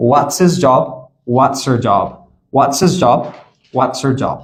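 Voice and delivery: What's his, What's her run together; "whatsiz job", "whatser job"; connected speech. Shown as a demonstration. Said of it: "So listen again".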